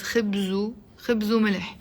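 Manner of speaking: خبز said as "khibzu", flowing into ملح; liaison. Shown as a demonstration. Teacher helps learners think of one word, linked "khibzu". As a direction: run خبز وملح together as "khibzu mileh". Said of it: "Almost think of it as".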